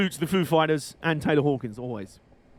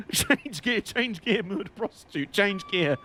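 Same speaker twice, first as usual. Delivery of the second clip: Clarkson; 4 semitones higher, slower than usual. Retold or imitated. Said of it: "that Clarkson roundabout truck drivers".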